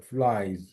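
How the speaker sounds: ফ্লাইজ ending in a buzzing Z; falling model of ফ্লাইজ with a voiced ending; final Z sound. Shown as a demonstration. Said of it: "কিন্তু উচ্চারণ হবে যার মতো".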